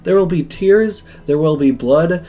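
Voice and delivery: lightly hammed-up welcome address; rousing speech. Professor welcoming students to cooking school, rousing speech. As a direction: build a grand list for the class. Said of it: "interrupts the professor's rousing speech".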